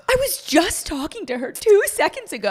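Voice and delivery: playfully incredulous recounting; retold disbelief. Retold disbelief at friend kissing.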